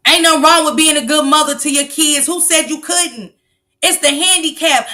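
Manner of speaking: ordinary talk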